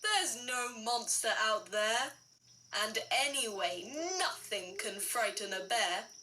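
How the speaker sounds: a hint of a low, laughing father; lightly voiced daddy bear. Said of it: "Daddy laughed".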